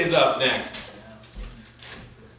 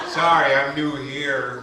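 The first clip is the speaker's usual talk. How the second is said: mock timid newcomer; much slower than usual. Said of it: "He turns around and is like".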